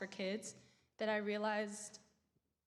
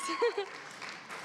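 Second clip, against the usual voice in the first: nervous laugh; 10 semitones higher, 3 dB louder than usual. Real, not acted. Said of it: "I'm nervous".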